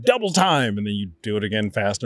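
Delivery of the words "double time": teacher's call. Retold or imitated. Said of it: "And he's like".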